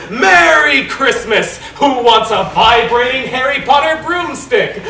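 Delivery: loud, slow hearty Santa voice; jolly Santa. Acted. Santa offering the broomstick to the room, loud jolly call. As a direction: boom the greeting out jolly.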